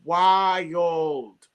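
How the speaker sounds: very slow, stretched-out verdict; emphatic disbelief. Real, not acted. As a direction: draw the words out in appalled amazement. Disbelief at rude audience behavior.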